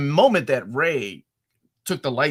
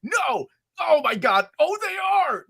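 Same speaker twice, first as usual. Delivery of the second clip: much higher, rising disbelief; stunned realization; 11 semitones higher, slower than usual. Retold or imitated. Lost in his head during the reveal, high stunned disbelief. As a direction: piece it together in awe. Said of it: "I'm like".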